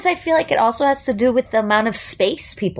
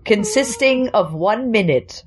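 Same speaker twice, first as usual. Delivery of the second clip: mock voice coach. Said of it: "I'm the voice coach".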